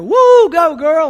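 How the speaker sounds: high, loud whooping cheer; hollered catcall, big and high; retold yelling. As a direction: whoop it out like a rowdy heckler. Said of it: "they start yelling at her".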